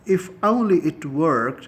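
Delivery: drawn-out sigh of regret; slow wistful demo. Shown as a demonstration. Teacher demoing a wishful English phrase, slow and drawn out. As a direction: stretch it out like a hopeless wish. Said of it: "تو یہ بھی ایک style ہوا".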